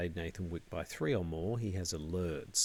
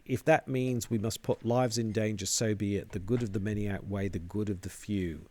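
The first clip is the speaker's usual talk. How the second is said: firmly. Acted. Cultist insisting to the lodge, said firmly. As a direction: state it firmly, no doubt. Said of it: "one of them says firmly".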